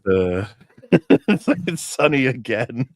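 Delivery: slow, pained mock-British groan at the sun; dismayed Englishman. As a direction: sigh it out like a Brit who hates sunshine. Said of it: "and he's like".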